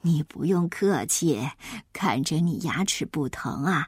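gentle granny voice, starting low; contented grandma. Acted. Grandma declines the child's eggs, gentle and contented. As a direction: fondly reassure the child like a grandmother.

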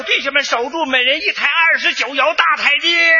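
rally the troops with a mock yell; shouted rally. Father urging his brothers to hold on, mild shout. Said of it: "那我爸爸大叫".

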